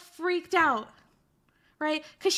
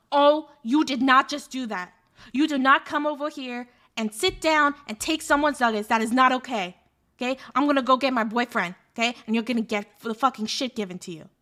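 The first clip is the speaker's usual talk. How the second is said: lightly voiced tough girl threatening him; tough girl losing it; 3 dB louder than usual. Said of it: "she just totally lost it".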